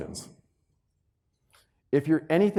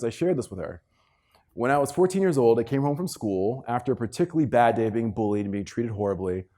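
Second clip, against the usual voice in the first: ordinary delivery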